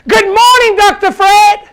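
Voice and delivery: high, loud "Good morning, Doctor Fred" greeting; staff shouting. Retold or imitated. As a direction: shout it cheerfully across the lobby. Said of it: "They gotta shout".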